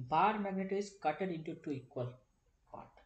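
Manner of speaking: slow, word-by-word dictation of "bar magnet is cutted into two equal part"; धीरे-धीरे लिखवाते हुए, "cutted" वाला वाक्य. Shown as a demonstration. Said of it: "ऐसा मैं लिख देता हूँ".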